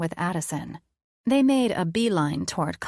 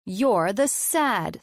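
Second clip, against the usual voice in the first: authoritative voice; 2 semitones higher, much slower than usual. Acted. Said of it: "best authoritative voice I could use".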